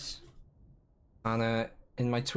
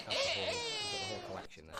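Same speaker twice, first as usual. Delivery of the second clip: laughing; 6 dB quieter, faster than usual. Real, not acted. Giggling after listing rude words.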